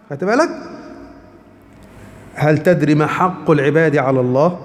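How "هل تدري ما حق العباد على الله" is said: slow, measured classical Arabic reading; slow solemn narration of the hadith; hadith recitation. Acted.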